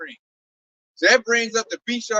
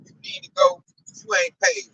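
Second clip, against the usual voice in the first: much higher-pitched imitation of a squabbler; mock bickering; 13 semitones higher than usual. Countries bickering over unpaid bills, mock bickering. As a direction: play one side of a petty squabble, pitched high. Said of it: "countries right now bickering amongst each other".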